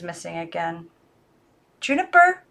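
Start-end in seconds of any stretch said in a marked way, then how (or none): 1.8-2.4 high, loud call. Acted. Girl calls out to the china dog, loud. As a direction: call the dog doll urgently. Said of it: "she called out".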